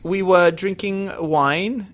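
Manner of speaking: put-on posh-phrased British accent. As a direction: play the very British guest, drawing out the formal phrasing. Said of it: "it's such a good accent".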